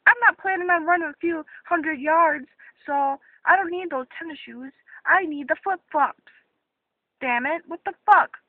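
annoyed, frustrated rant; mad. Real, not acted. Shopper ranting about the wrong shoes, mad. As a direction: let real irritation show. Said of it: "Sorry, I'm getting very mad".

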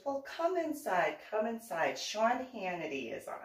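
a hint of a gushing neighbor inviting him in; neighbor's voice. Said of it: "She goes".

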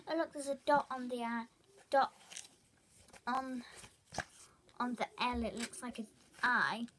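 pointedly loud, exaggerated tattle; over-exaggerated classmate. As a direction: imitate a boy making too much of it. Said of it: "I think he was actually over-exaggerating".

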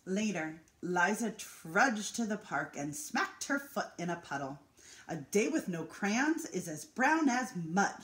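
gentle storytelling read to an audience; picture book reading. A narrator's reading. Reading a picture book to the residents, lively storytelling.

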